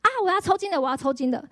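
half-playful alarmed call; retold cry of alarm. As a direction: replay the panicked cry as it cramps. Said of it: "我就大叫说".

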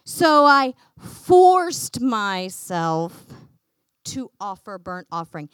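drawn-out, self-pitying excuse; whiny four-year-old. Acted. King blaming circumstances for his offering, whiny. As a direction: stretch it out loudly, then let it sag. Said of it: "a whiny four-year-old".

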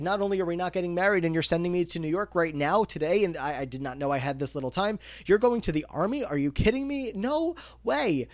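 imitating Rachel's panic at the Army news; incredulous freak-out. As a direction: she can't believe what she's hearing.

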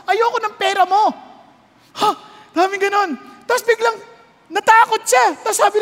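high, loud preaching at full force; fiery preaching. Acted. (malakas at mataas na pangangaral)

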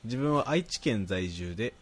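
even, articulate read-aloud; reading listener mail. Acted. Host reading a listener's praise to co-host, reading aloud. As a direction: read the letter out neatly.

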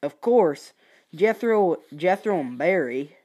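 lightly put-on Southern US accent; a hint of a Southern accent. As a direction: read it with a Southern twang. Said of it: "let's just do a southern accent".

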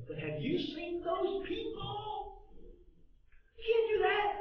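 mock-divine challenge, rising to a shout; voicing God. Preacher voicing God challenging the doubting people, high shout. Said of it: "and God said".

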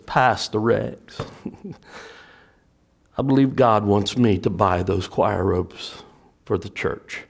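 a hint of a sweet Southern lady; lightly voiced Southern lady. Miss Maxine telling her pastor about the robes, lightly Southern. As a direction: gently suggest a Southern church lady. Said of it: "with that beautiful Southern lady voice".

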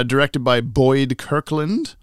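slow, drawn-out credit read; deliberate, lilting credits announcement; mock credits announcer. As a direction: stretch each name out ceremoniously. Reads credits in put-on pitch.

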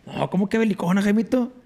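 high-pitched incredulous question; acted-out disbelief, rising high; mock protest. Acts out own protest to friend.

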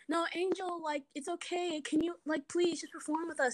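lightly imitated pleading, high and a bit soft; mock gentle coaxing. Teammates ask upset dancer to perform, gently pleading.

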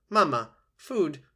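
put-on very high, loud baby-bird cries; peeping gosling. A narrator's reading. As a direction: peep it out like a hungry hatchling calling its mother. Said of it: "peeped the gosling".

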